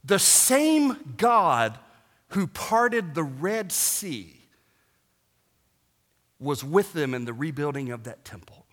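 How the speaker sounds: slow, dropping to a breathy whisper; hushed whisper. Real, not acted. Pastor hushing the congregation on God's faithfulness, whispered. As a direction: let it fall to a reverent whisper.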